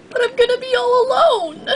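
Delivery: tearful, self-pitying whine; whimpering. Acted. Pony left behind by friends, whimpering. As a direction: fake cry about being left alone.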